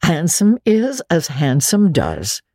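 slow, lightly voiced proverb; a hint of prim Marilla. Marilla quotes a proverb at Anne, lightly prim. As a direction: recite the saying primly. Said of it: "quoted Marilla".

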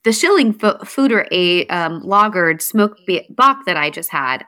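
tripping over words with false starts; real tired stumbling. Real, not acted. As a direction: stumble through it, cutting words off and restarting. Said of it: "I feel like I'm stuttering so much".

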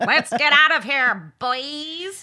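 alien voice. Pretend. Aliens leaving in their car.

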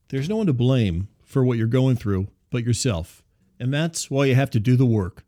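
measured ad read, slowing at the end; promo read. Acted. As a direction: read the sponsor copy straight. Rereads sponsor promo copy.

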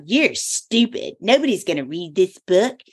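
lightly voiced mocking tempter; devil's taunting voice. The devil taunting her about the book, lightly sneering. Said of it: "And he was like".

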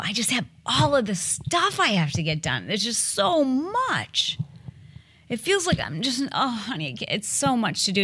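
lightly hammed-up helpless wife; damsel in distress. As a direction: play the overwhelmed damsel to get help. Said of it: "be the damsel in distress".

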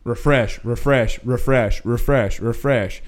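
low, soft, repetitive muttering; mock a fan glued to Twitter, under the breath; fans obsessively refreshing. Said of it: "This is gonna be y'all on Friday morning".

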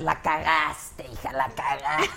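low, slow mock scolding; imitating a scolding elder. The host imitates how Maca mimics her, low and slow mock scolding. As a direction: drag it out like a disappointed elder. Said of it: "Maca me imita a".

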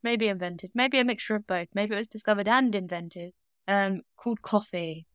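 mock epic tale. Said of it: "mock epic storytelling".

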